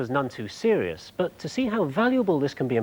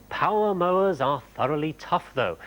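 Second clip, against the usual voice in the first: test sentence read-out; 2 semitones higher than usual. Shown as a demonstration. Reads out the acid test sentence.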